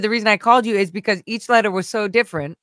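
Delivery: lightly imitated Indian accent; bad Indian accent. House manager explaining why he called, light Indian accent. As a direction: put on a rough Indian accent. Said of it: "I'm doing the worst accent".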